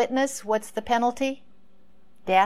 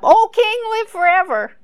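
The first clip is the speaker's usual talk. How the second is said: much higher, small voice rising from below; little voice; 12 semitones higher, 8 dB louder than usual. Retold or imitated. Daniel answering the king from the pit, small high voice. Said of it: "he hears this little voice coming up".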